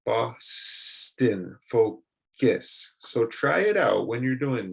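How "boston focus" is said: Boston and focus with the reduced vowel, drawn out; model words. Shown as a demonstration. Teacher demonstrates the vowel with a wide mouth. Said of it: "make your face look like the Joker".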